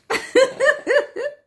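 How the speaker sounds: high delighted giggle. Real, not acted. Laughs about the filter.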